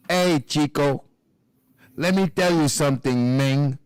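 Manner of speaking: low, drawled mock Cuban-tough-guy accent; Razor Ramon impression. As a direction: swagger it like a fake Latino wrestler accent. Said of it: "he used to be like".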